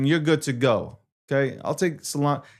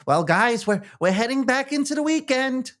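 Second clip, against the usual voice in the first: higher, mock Landy voice, hammed-up; squeaky mock co-host voice, higher than his own; Landy impression; 8 semitones higher than usual. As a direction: imitate Landy doing a market wrap. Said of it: "as Landy's gonna say".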